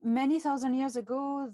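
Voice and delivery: grave, loud storytelling opening; weighty and serious. Real, not acted. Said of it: "Serious now".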